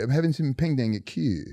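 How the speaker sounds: lightly done British accent; put-on British accent. Shown as a demonstration. Joking about the restaurant name in a mock British accent. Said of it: "I can do a British accent".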